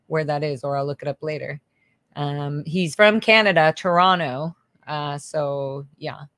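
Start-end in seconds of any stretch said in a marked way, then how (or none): 2.1-6.2 light Canadian accent, louder. Shown as a demonstration. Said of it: "I just got my Canadian accent on".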